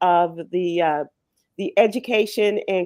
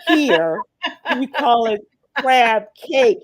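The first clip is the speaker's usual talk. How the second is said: slow, slightly louder local lecturing; mock correction; 4 semitones higher, 5 dB louder, slower than usual. Local guy correcting a visitor on crab cake, slow and schoolmasterly. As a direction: drawl it out like setting a tourist straight. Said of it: "He said".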